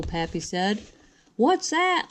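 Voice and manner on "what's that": high, alarmed question from Ma; mother's startled question. Acted. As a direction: ask it with a sudden start. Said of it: "Ma said".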